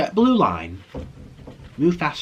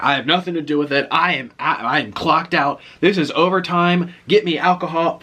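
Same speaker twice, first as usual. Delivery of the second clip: emphatic, louder mock griping; fed-up clerk; 5 semitones higher, 5 dB louder than usual. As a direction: imitate a worker refusing any more duties. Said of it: "That's how he was talking".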